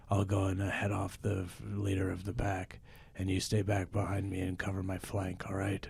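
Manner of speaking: a touch of a bold adventurer rallying his partner; understated action-hero voice; mild improv hero. Acted. Plays hero in wolf improv scene.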